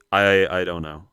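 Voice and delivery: loud exasperated burst of giving up; frustrated outburst. Real, not acted. Player stumped on a timed baseball quiz, loud frustrated outburst. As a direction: blurt it out, fed up and stuck.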